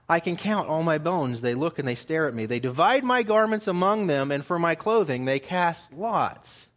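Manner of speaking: preacher declaiming the psalm to his flock; scripture reading. Acted. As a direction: proclaim the psalm verse by verse. Reads psalm aloud in sermon.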